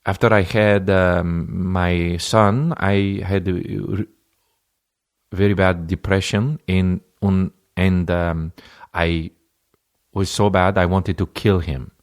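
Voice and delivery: a mild, halting bad Russian accent; a hint of a Russian accent, slow and hesitant. Comic quotes his Russian date, bad Russian accent. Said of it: "the worst Russian accent ever".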